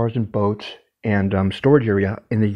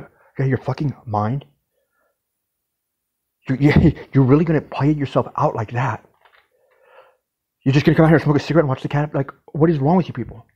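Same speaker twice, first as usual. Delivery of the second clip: incredulous yelling; 4 semitones higher than usual. Retold or imitated. Confronting coworkers who won't help.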